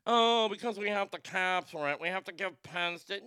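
lightly put-on whiny excuse voice; a hint of mock bureaucrat; mocking officials. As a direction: mimic a silly official making excuses. Mocks officials' excuse, then rebuts it.

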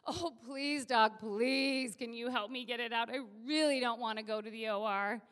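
imitating a begging patient; lightly acted desperate appeal; pleading. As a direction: plead with the doctor in earnest. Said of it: "looks at me with pleading eyes".

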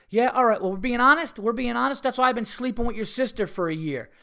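high, loud mock outburst of a wronged husband; worked-up imitation, pitched high; retold angry confession. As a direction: act out his indignant blurting back.

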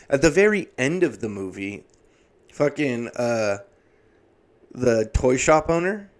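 ordinary talk, nothing marked

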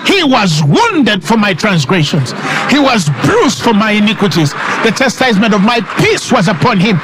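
forceful faith confession, rising on key words; emphatic preacher, soaring on "because"; preaching declaration. Acted. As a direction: proclaim it like scripture to a congregation.

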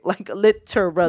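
"literally" split into every syllable. Retold or imitated. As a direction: say "literally" as lit-er-al-ly, each syllable separate. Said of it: "breaks it down syllabically".

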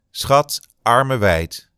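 a lightly voiced photographer calling to his model; mock photographer. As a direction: play the fussy fashion photographer, drawn out. Photographer directing a shoot.

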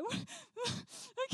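high, breathy mock wheeze; mock gasping. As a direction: act out catching your breath. Imitates own breathless panting on trail.

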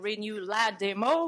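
"renew la demo" said the French way, slowed, with a French accent. Shown as a demonstration. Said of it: "with a French accent".

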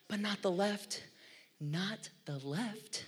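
not the left, dragged out slowly, each word leaned on; slow insistent emphasis. Real, not acted. Pastor warning drivers off the left lane, slow and emphatic. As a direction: spell it out slowly so nobody misses it. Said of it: "you're getting me all worked up".

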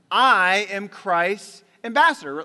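loud and slow, each word weighted; slow declaration. Shown as a demonstration. Preacher models the line before the church repeats it, slow and loud. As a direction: lead the room in proclaiming it. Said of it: "Let's say it".

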